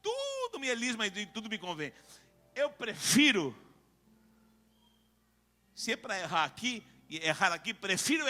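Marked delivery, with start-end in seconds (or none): 0.0-1.9 lax believer. Acted. Preacher voicing what many here think, lightly mimicked. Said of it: "muita gente que pensa assim".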